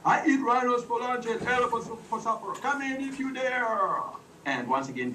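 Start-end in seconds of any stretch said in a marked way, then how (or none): 0.0-4.0 higher playful monster boast; lightly voiced monster threat; booming monster. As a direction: boom it out like a cartoon monster. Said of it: "the big booming voice came out".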